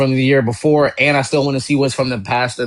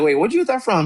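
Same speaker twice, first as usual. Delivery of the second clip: high-pitched retold double take; eager surprise; 10 semitones higher, faster than usual. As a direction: re-enact an excited question to a friend. Retelling eager reaction to friend's bargain.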